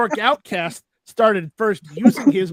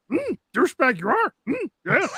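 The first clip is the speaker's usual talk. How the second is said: Yoda voice; 6 semitones higher than usual. Retold or imitated. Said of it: "I do the Yoda voice".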